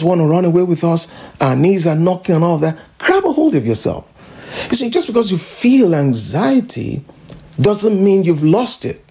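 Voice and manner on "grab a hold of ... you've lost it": urgent exhortation. Real, not acted. Preacher exhorting congregation.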